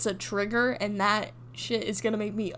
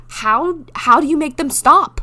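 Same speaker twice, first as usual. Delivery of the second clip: mock pleading; 4 semitones higher, 9 dB louder, slower than usual. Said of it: "I was like".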